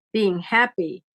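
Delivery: ordinary talk, nothing marked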